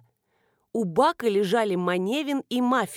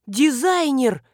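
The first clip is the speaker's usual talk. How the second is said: loud, high alarmed cry; sudden realization; 4 semitones higher, 6 dB louder, slower than usual. A narrator's reading. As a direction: remember with a jolt. Marina jumps up remembering.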